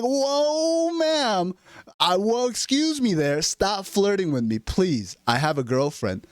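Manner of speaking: high, slow, hammed-up prude; mock prudish man. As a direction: recoil in mock horror, drawing it out.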